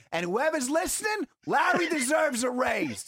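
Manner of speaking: sweet words yelled in fury; kindness with rage. Retold or imitated. Closing a recorded call, yelling praise at the eavesdroppers. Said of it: "Kindness with rage".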